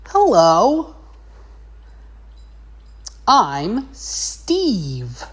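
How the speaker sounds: high, bright-eyed hello; overly friendly. Retold or imitated. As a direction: greet her like an eager new neighbour. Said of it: "he's trying to be all friendly".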